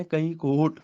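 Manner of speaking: "ਕਈ ਕੋਟ" then a full pause; stop on kot. Shown as a demonstration. Teacher marks the halt, pause after "ਕਈ ਕੋਟ". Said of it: "ਕੋਟ ਤੇ ਰੁਕਣਾ ਹੀ ਰੁਕਣਾ ਵੈ".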